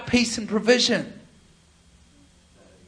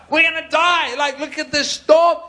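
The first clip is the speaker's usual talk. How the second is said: higher, louder, panicky; panicked disciple; 7 semitones higher, 5 dB louder than usual. Retold or imitated. Disciple in the sinking boat, mock terror. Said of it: "It's like".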